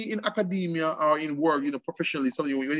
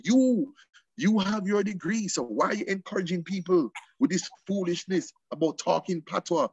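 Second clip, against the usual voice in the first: retold reproach; 3 semitones higher than usual. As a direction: scold in a raised pitch, easing down.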